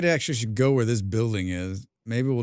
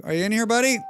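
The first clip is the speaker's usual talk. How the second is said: high pet voice; 11 semitones higher, 4 dB louder, faster than usual. Acted. Talking sweetly to game animal.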